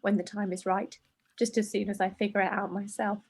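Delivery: measured, understated reading voice; letter read aloud. A narrator's reading. Presenter reading a letter to hormones, measured. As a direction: read it evenly, as a written letter.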